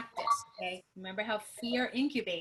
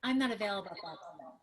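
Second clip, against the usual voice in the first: upbeat demo; 5 semitones higher, 4 dB louder than usual. Shown as a demonstration. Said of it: "go and write your phrase out".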